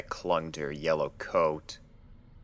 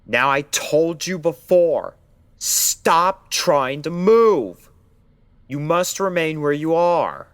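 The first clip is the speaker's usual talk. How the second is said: puffed-up doctor, higher and louder, easing off; doctor puffing himself up, louder then calming; forced authority; 8 semitones higher, 9 dB louder than usual. Acted. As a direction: fake a commanding tone while scared. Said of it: "injecting as much authority into his voice".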